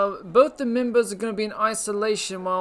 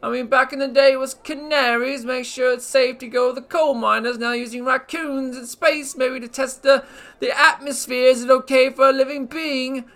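a hammed-up British accent, lightly done; put-on British accent; 2 semitones higher, 4 dB louder than usual. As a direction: play a cheeky British host with a put-on British accent. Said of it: "That's a nice accent you have".

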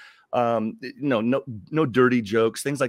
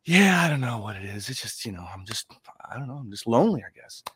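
dejected Adam; faster than usual. Acted. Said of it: "you look pretty down".

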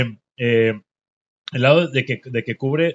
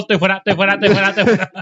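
chorus of investors; 6 semitones higher, 5 dB louder, much faster than usual. Retold or imitated.

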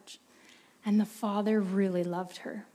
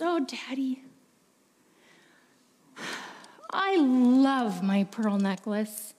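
put-on tearful girl; slower than usual. Girl near tears.

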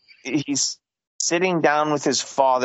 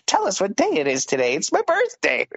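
put-on squeaky kid voice jumping much higher on the birthday line; imitating the birthday boy; 5 semitones higher, faster than usual. Mocking the boy in the home video, high kid voice. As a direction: mimic the little boy announcing his birthday.

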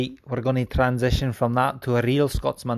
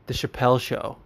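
usual speaking voice

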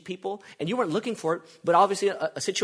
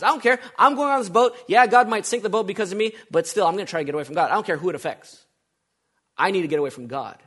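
defiant Jonah; 3 semitones higher, 6 dB louder, faster than usual. Retold or imitated.

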